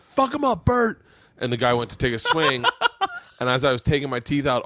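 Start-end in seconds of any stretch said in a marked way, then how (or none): 0.0-1.0 imitating Ari. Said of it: "was like".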